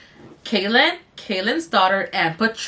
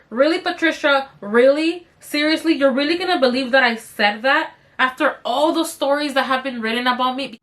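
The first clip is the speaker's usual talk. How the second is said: worked-up retort; 3 semitones higher than usual. Retold or imitated. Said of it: "I couldn't calm down for shit".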